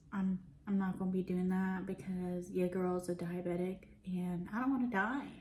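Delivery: whispered joke to the camera; hushed confiding aside; whispering. Real, not acted.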